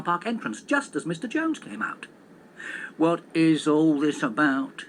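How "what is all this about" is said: slow, louder grumbling question; grumble. Acted. Taxi driver grumbling at the police roadblock. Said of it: "he grumbled".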